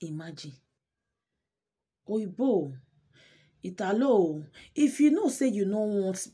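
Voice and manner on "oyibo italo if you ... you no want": loud, indignant call-out; raised-voice telling-off; indignant scolding. Real, not acted. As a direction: scold the absent husband loudly. Storyteller scolds the husband directly.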